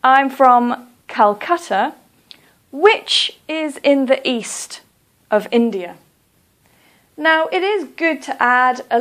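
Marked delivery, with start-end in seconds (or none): 0.0-5.9 slow, careful extended answer; slow model answer. Shown as a demonstration. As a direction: lay it out slowly for the learner. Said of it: "You could say".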